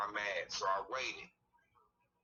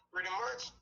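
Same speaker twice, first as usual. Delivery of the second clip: pitched higher so he hears; louder repeat; 10 semitones higher than usual. Real, not acted. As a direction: say it again, clearer and higher. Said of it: "What'd you say now?".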